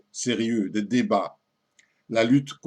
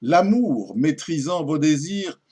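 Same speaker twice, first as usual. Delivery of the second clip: poem recitation. Acted. Lady doubting her lover's restraint, theatrical poem recitation. Recites the lady's final refusal.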